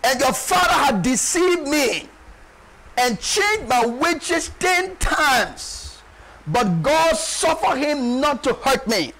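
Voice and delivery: slow, drawn-out acted lament; Jacob. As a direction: stretch each phrase like a grievance cried out. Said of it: "Look at Jacob lamenting here".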